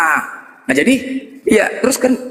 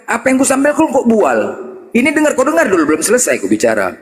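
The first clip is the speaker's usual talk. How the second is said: ordinary delivery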